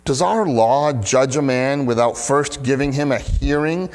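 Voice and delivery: measured, expressive public Bible reading; scripture reading. Acted. Pastor reading John seven to the congregation, scripture reading. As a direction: read the passage out clearly, lifting the questions. Reads the scripture passage aloud.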